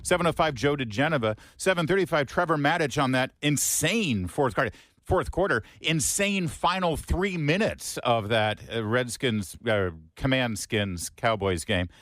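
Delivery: drive-time host reading the rundown; radio show opener. Real, not acted. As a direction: open the morning show with lifted, punched-up announcing.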